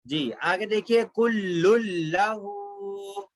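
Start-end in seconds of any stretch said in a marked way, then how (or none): 1.1-3.3 कुल्लुल लहू slowly, held l and long final oo; merged lam recitation. Shown as a demonstration. Teacher showing the next example, slow merged recitation. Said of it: "लेकिन कुल्लुल पढ़ेंगे".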